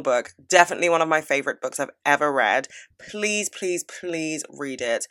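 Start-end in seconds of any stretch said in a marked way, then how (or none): 3.0-5.1 pleading. Real, not acted. Begging viewers to read book.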